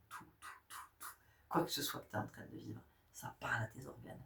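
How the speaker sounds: soft, breathy, almost whispered insistence; hushed insistence. Acted. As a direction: lean in and whisper it like a secret. Intimate emphatic point.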